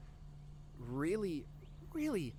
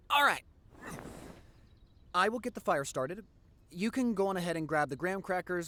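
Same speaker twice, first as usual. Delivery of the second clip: excited; 4 semitones higher, 5 dB louder than usual. Real, not acted. Excitedly organising the bonfire.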